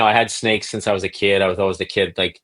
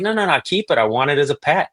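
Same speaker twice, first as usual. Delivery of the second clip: put-on much higher, eager childish plea; excited kid; 7 semitones higher, faster than usual. Boy begging grandma to keep the snake, excited high plea. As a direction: beg like a thrilled little boy.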